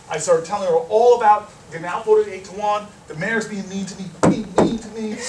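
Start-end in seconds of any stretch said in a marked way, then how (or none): 3.1-5.2 mild mock whine; playful imitation of whining; retold whining. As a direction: complain like a put-upon kid, lightly. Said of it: "whining at her nonstop".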